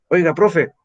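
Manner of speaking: lightly voiced pupil calling profe; student calling teacher. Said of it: "algunos alumnos me dicen".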